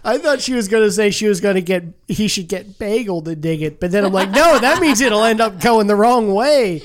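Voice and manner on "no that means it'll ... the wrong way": louder, giggling through the words; laughing. Real, not acted. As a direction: talk while cracking up. Laughing at own joke.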